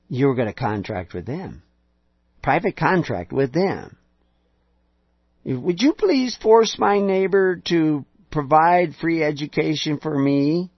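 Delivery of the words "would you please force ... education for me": mock pleading citizen.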